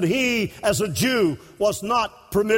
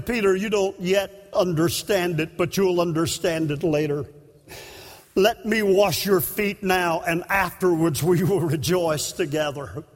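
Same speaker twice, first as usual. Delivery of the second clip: gentle Jesus; 5 semitones lower than usual. Acted. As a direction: speak to him gently, like a patient master. Preacher voices Jesus gently to Peter.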